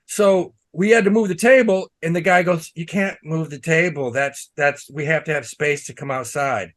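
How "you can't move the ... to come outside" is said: waiter's voice, slightly lower and softer; a touch of the prissy waiter; imitating the waiter. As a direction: mimic the fussy waiter, understated. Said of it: "This voice you're doing".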